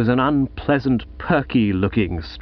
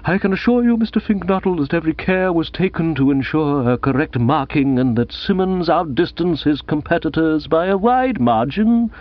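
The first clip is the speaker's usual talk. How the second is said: earnest assurance in an altered, higher voice; bearded official, earnest; 5 semitones higher than usual. Acted. The bearded bloke assures Gussie the marking was correct, earnestly. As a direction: defend the marking as a formal schoolmaster.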